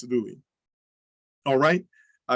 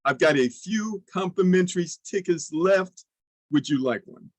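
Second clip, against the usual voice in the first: scarcity line demo; 2 semitones higher than usual. Shown as a demonstration. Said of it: "You gotta say that, scarcity".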